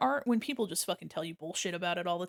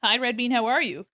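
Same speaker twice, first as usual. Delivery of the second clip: mock sassy, raised voice; sassy retort; 3 semitones higher, 5 dB louder than usual. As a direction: snap back with sass. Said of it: "And I was like".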